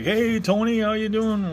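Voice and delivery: high, drawn-out mock greeting; coworker's greeting.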